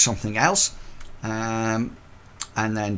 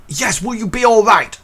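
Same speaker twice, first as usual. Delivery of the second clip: much higher, anxious guard voice; worried old porter; 10 semitones higher, 6 dB louder than usual. Acted. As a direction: fret over her as you go. Porter Bert worried for miss.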